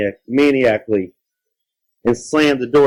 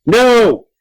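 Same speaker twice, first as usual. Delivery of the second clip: loud, high monster yell; 13 semitones higher, 7 dB louder than usual. A narrator's reading. Monster tugging at his neck, yelling. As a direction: yell a desperate refusal. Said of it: "the monster yelled".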